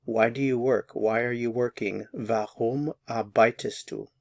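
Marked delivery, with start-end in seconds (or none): 2.1-4.1 Warum arbeitest du drawn out slowly; slow model. Shown as a demonstration. Teacher models the question slowly for learners. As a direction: say it slowly, word by word. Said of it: "put the warum in front of it".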